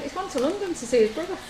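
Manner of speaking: laughing quote. Retold or imitated. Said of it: "And she went".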